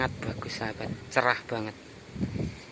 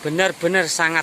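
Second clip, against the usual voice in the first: raised voice, higher and louder; shouting over wind; 4 semitones higher, 4 dB louder than usual. Real, not acted. Outdoors in strong wind.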